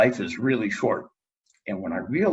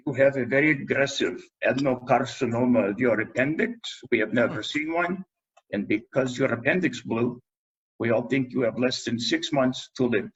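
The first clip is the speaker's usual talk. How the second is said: imitating Ed Kaminsky; 2 semitones higher than usual. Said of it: "to imitate him".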